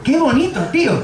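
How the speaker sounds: high, gushing wonder; amazed friend. Retold or imitated. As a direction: marvel like seeing colour for the first time. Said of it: "lo que dice es". (amigo maravillado, voz aguda)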